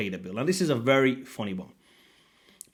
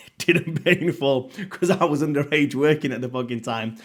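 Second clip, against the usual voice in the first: a chuckle through the words, slightly louder; laughing aside; 4 dB louder than usual. Real, not acted. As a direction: laugh it off as you correct yourself. Laughing at his own correction.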